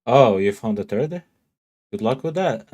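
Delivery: loud, amused disbelief at the news; surprised teasing shout. Real, not acted. Streamer calls out to a chat viewer, loud and surprised. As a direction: call out in mock surprise, then tease. Reacting to someone finding a third.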